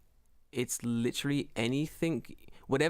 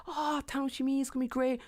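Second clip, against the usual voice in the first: put-on old woman; 10 semitones higher than usual. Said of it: "And they're like".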